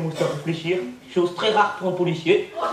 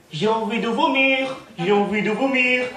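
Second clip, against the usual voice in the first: retold cry; 5 semitones higher, 3 dB louder, slower than usual.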